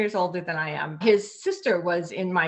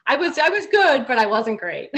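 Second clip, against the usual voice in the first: laughing self-deprecation; 5 semitones higher, 6 dB louder than usual. Real, not acted. Laughing at herself.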